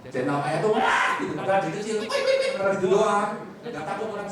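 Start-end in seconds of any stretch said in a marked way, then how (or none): 2.0-2.5 very high yapping; yappy little dog. Retold or imitated. Preacher imitating a small dog trying to look fierce, high yaps. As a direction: squeak it out like a tiny dog.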